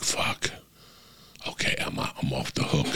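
relieved mutter. Retold or imitated. Relieved inner thought retold.

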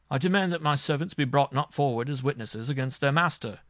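loud, high, indignant demand; storming. A narrator's reading. Marshal forbids servants' testimony to the judge, storming. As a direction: storm at the judge with wounded authority. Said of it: "stormed the marshal".

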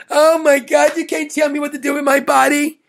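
mock protester. Mocking protesters on TV, hammed-up indignant yell. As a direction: yell it like a parody activist.

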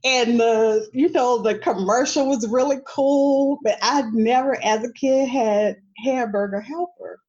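high, loud, laughing complaint. Real, not acted. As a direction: gush through laughter. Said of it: "I thought it was an injustice".

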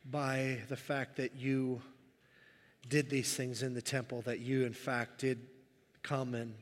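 halting, heartfelt prayer; earnest prayer. Real, not acted. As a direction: lead the room in prayer, pausing between phrases. Leads the congregation in prayer.

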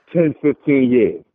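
ordinary talk, nothing marked

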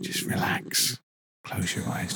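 soft unvoiced relax cue; soothing whisper. Guest lulls the host to sleep in a whisper. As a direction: ease him into sleep.

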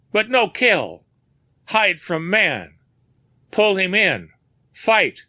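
high, loud broken-English shout; frightened foreigner yelling; vociferating. A narrator's reading. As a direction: shout your innocence in a panic. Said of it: "he vociferated".

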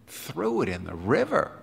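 softly echoed question, rising at the end; understated startled query; taken aback. Acted. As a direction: repeat it in quiet disbelief. Helmholtz echoes in disbelief.

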